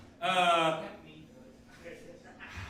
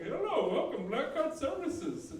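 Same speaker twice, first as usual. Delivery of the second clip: put-on sing-song Indian-accented phone greeting; 5 semitones higher than usual. Call-center worker greets a customer, Indian accent. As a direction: put on an Indian accent, stretching the last words. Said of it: "'Cause the guy's Indian".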